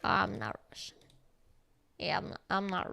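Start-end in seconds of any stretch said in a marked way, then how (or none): none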